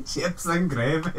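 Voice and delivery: slow, soft mock Dudley accent; badly faked Dudley drawl; bad Midlands accent. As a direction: attempt a Dudley accent, drawn out. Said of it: "That's so bad. That accent, wow".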